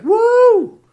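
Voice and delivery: loud, high whooping entrance; hammed-up party bro. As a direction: burst in like the returning cool guy. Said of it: "Greece shows up to the high school reunion like".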